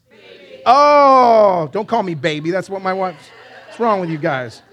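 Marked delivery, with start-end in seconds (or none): none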